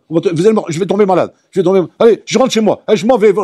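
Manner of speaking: plaintes geignardes, plus aiguës et fortes; corps qui se plaint. Acted. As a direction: jouer le corps qui panique et proteste. (le corps geint devant le rav)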